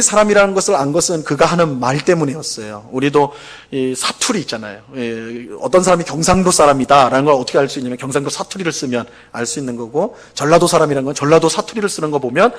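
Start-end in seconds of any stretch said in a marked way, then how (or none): none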